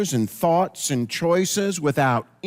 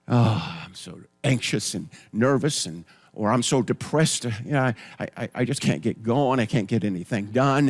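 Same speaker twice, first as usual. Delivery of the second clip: a hint of a sad, anxious person; mock depressed sufferer; 5 semitones lower than usual. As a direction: imitate someone weighed down and anxious. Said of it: "They'll say something like this".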